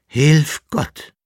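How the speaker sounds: loud, high wail of complaint; lamenting. A narrator's reading. Beaten jester wails to the emperor, loud and high. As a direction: wail to heaven, milking the pain. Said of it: "klagte er".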